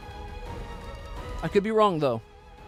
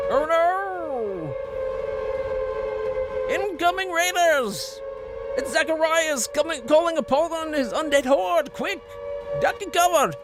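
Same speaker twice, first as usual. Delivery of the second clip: mock panic alarm; 11 semitones higher than usual. Mock alarm at stream raid.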